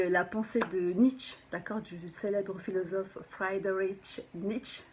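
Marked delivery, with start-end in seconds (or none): 3.3-4.8 playfully put-on German accent. Shown as a demonstration. Coach shows off to viewers, mock German accent. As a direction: say the name with a hammed-up German accent. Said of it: "mon super accent allemand".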